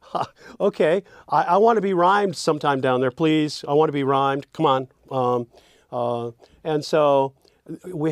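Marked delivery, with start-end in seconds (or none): 0.0-4.9 a lightly voiced eager lyric line; playful voice of a line. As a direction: play the verse line begging to be rhymed. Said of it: "that second line now is going to say".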